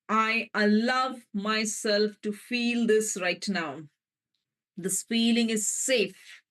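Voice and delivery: slow, tender affirmation; gentle affirmation. Shown as a demonstration. Healer modelling an affirmation for listeners, slow and gentle. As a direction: savour each line of the vow. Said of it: "gently say".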